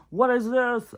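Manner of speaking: high, strained whisper of disbelief; whispered plea to the universe; exasperated whisper. Retold or imitated. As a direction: hiss it up at the sky, fed up. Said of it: "I'm like".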